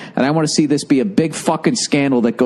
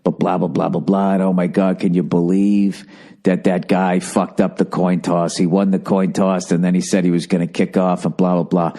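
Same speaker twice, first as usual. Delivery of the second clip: droning imitation of gushing fans; mocking excited fans; 6 semitones lower than usual. Mocking Jet fans gloating over the win, droning imitation. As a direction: run it together in a low, mocking monotone. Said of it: "You're all excited. You're like".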